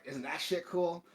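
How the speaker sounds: imitated dealer showing off, high and slow; lightly voiced proud salesman; happy vendor. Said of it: "he's, like, so happy".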